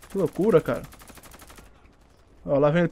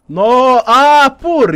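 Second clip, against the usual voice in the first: slow, higher, loud drawn-out "ah"; surprised realisation; 8 semitones higher, 11 dB louder, much slower than usual. Real, not acted. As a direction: stretch it out in disbelief. Realising opponent is a hacker.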